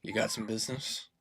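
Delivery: gruff guard challenge. Acted. GM voices armed guard.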